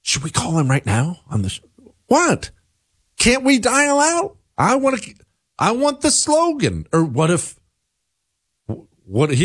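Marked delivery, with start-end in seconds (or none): 2.1-6.9 very high-pitched, eager whine; excited pleading. Real, not acted. Host begs Chris to dial out, excited pleading. Pleads to phone the emailer now.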